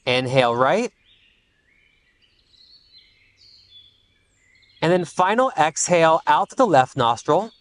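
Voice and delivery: sparse, measured breath cues with long pauses; guided breathing cues. Acted. Teacher leading students through alternate nostril breathing, calm guided cueing. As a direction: count them through each breath with brief, spaced cues.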